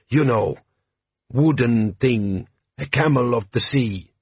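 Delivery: put-on slow, heavy-accented bandit chief; lightly voiced warlord, measured and proud; Jabbar, desert chieftain. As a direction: lean into a slow Klatchian drawl. Jabbar speaking.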